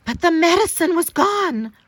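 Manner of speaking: 1 dismay. A narrator's reading. Medicine lost in the snow.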